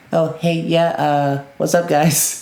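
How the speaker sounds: high, very slow, light, casual, unhurried voice. Retelling how Zion Williamson actually talks: imitating Zion Williamson's voice. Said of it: "he talks like".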